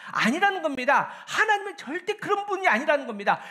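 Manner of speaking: high, loud, emphatic denunciation; full-force preaching. Real, not acted. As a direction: cry it out from the pulpit, building in force. (단호하게 높이 외치는 설교)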